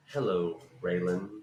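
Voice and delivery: Goggins obliging a fan with the line; Walton Goggins impression. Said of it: "And he went".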